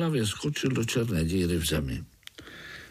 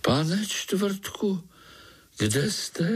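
high whisper into the dark; frightened whisper; 9 semitones higher, much slower than usual. Acted. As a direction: whisper anxiously for the lost mole. Lost spider calls in darkness.

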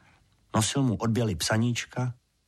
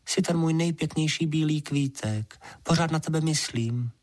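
lovesick water goblin; 7 semitones higher than usual. Acted. Hastrman woos Bělinka.

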